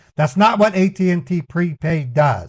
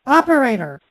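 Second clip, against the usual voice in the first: shouting; 10 semitones higher, 6 dB louder, much faster than usual. Real, not acted. Shouting at phone menu.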